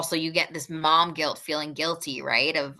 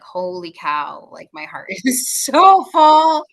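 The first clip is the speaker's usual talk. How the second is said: overjoyed laugh; 11 dB louder, much slower than usual. Retold or imitated. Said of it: "you're like".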